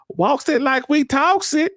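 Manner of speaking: high, drawn-out mock Southern accent. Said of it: "she got that little Southern accent".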